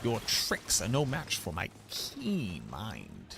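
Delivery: slow pompous boast; grand mock villain. Streamer boasting to Belial like a slow pompous villain. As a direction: boast slowly like a storybook villain.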